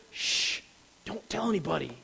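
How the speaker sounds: "Shh" whispered, the rest soft and hushed; Jesus hushes disciples about being the Messiah, softly; hushed secret. Acted.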